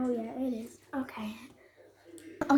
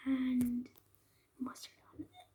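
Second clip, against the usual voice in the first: whispering; 11 dB quieter than usual. Real, not acted. Hiding the sauces from mom.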